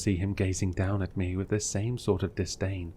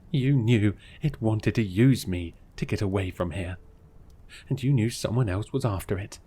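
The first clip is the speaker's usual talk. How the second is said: crying out. Acted. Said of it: "I cried".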